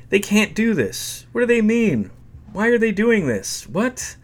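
high, pleading, near tears; distraught disbelief. Acted. He hears he's fired from the band, distraught and pleading. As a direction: cry out in shocked disbelief. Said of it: "Tears spurted from my eyes".

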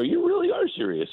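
mock stunned, pushing for the truth; incredulous question. Reporter retelling how he pressed the GM: high, stunned disbelief. Retold doubt at GM's tease.

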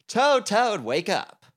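loud, high-pitched call; high urgent shout; waking someone up. A narrator's reading. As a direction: call out urgently to wake a friend. Frog wakes Toad in story.

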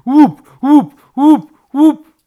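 high, loud, abrupt thumps; loud pecking noise. A narrator's reading. Woodpecker hammers the treetop, loud high bursts. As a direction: rap out each knock. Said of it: "zaczęła robić łup".

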